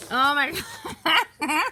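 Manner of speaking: loud laughing oh my God; laughing exclamation. Real, not acted. Mom laughing at her kids mid-video, loud. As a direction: burst out laughing at the chaos.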